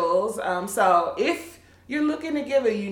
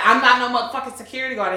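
put-on New York accent; much faster than usual. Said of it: "in his New York accent".

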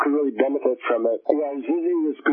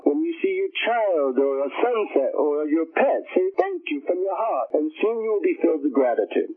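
guru voice; 3 semitones higher than usual. Retold or imitated. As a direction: teach like a calm guru.

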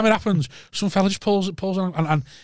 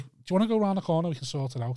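imitating a casual, quick invitation to fight; understated offer, dropping softer at the end; too-calm challenge; 6 dB quieter, faster than usual. Rival driver offering the cabbie a fight, unnervingly calm. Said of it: "He's taking this far too calm".

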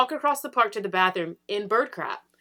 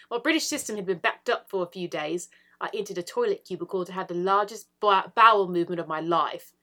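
excited British accent, rising higher; 4 semitones higher, 4 dB louder than usual. Shown as a demonstration. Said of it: "I think the accent made that".

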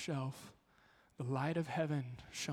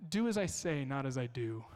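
stern parent saying. Retold or imitated. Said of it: "I heard the phrase growing up".

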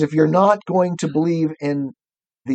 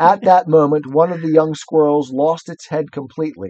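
lively, clearly projected storybook reading; story narration; 2 semitones higher than usual. A narrator's reading. Reader telling of the panicking squirrel, story narration. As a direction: read it out with building drama.

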